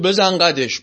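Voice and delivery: a hint of a bully's swagger; bullying swagger. King to frightened carriage driver, lightly mock bully. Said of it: "با همون حالت قلدریش".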